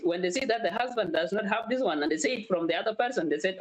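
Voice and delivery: ordinary talk, nothing marked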